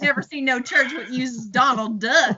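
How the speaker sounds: botched Cockney gone country; hammed-up rustic accent meant as Cockney; attempted Cockney accent. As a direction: put on a country-sounding bad Cockney. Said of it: "trying to go more for Cockney".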